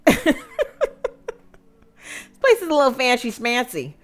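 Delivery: hamming up a snooty guest; mock snooty. The speaker teasing the fancy country club, mock snooty.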